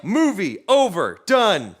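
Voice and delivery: each word punched loud and final; clipped verdict. Retold or imitated. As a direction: slam it shut word by word. Cop declaring case closed.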